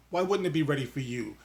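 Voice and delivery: ordinary talk, nothing marked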